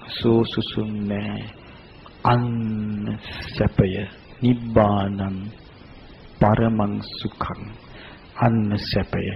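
slow, soft and low; hushed, solemn. Real, not acted. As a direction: let each phrase settle softly, unhurried. Solemn close on Nibbana as bliss.

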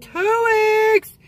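high, loud exclamation; incredulous squeal about the wait; exasperated cry. Real, not acted. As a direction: stretch it out in disbelief. Exclaiming about finding the sunglasses.

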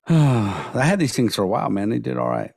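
strained, worn-out voice; hoarse from talking all week. Real, not acted. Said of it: "So now my voice is all fucked up".

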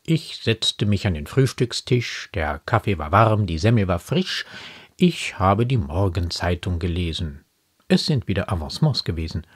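understated poetic delivery; poem recitation. Acted. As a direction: recite the poem calmly, with restraint.

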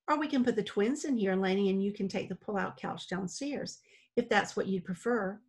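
coolly unfriendly, a touch of threat; slightly cold, mildly pointed; not-so-friendly. Acted. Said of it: "she said in a not-so-friendly voice".

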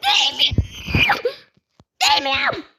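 high, slow crying shriek of protest; crying wail. Real, not acted. Gamer wailing that he isn't touching anything. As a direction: wail it like you're near tears.

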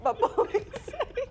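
giggling through the news read; fighting back laughter mid-sentence; trying not to laugh. Real, not acted. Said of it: "the speaker has been laughing".

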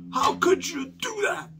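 hammed-up heartbroken fan asking why; mock dismayed whine. Mock outraged fan, pleading.

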